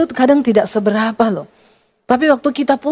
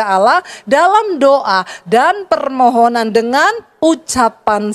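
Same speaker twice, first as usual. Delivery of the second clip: raised preacher's voice, reading scripture; preaching; 3 semitones higher than usual. Acted. Pastor preaching to the congregation about worry, raised voice. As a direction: proclaim it to the congregation.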